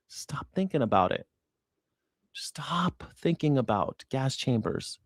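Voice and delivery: slow taunting whisper; mocking whisper. Real, not acted.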